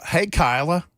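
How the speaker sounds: casual "Hey, Kyla." with the wrong name; wrong name said breezily. Shown as a demonstration. Host greeting a colleague by the wrong name, breezy. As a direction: toss off "Kyla" like it's right. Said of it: "I'm not gonna sit here and go".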